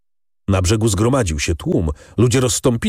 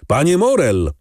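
calling out; 5 semitones higher than usual. A narrator's reading. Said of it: "krzyczał ktoś na schodach".

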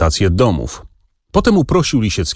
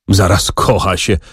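mocking. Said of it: "powtórzył drwiąco".

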